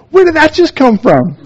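high, stunned disbelief; amazed, high-pitched reenactment of his own reaction; retold astonishment. Retelling his shock at the priest.

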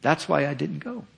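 lightly voiced resentful prophet; sulking Jonah. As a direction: whine that you knew it all along. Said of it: "He said to God".

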